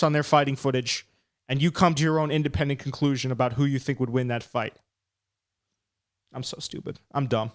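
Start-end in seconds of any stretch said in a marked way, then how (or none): 6.3-7.5 whispered to self. Real, not acted. Muttering at himself after a slip.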